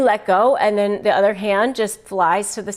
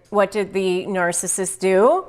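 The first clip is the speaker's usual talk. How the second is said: ordinary talk, nothing marked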